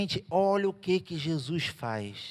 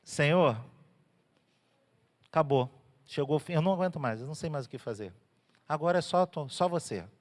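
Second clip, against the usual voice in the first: desperate prayer; 4 semitones lower than usual. Acted. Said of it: "quando você fala assim".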